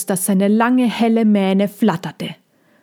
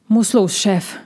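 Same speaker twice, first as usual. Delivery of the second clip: not unfriendly. Acted. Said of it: "aber nicht unfreundlich".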